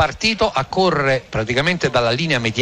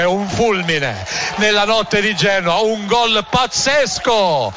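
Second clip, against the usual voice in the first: excited, higher goal recap; breathless italian goal commentary; 4 semitones higher than usual. Real, not acted. Post-goal commentary, raised voice.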